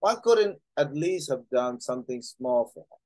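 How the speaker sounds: slow, careful English reading aloud. Acted. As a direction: read each word slowly for learners. Reads English novel line slowly.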